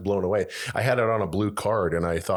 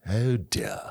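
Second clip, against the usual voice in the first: David Richard Attenborough; 2 semitones higher than usual. Retold or imitated. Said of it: "but you hear his voice".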